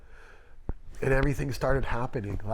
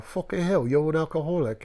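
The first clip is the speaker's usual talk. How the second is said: higher, imitated British accent; exasperated old British boss, mimicked; old British man; 4 semitones higher than usual. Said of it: "You know, old British dude".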